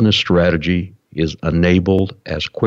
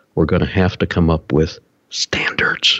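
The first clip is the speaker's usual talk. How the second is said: hushed whisper. Speaker explaining work across companies whispers a phrase, whispered. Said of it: "I have to whisper this phrase here".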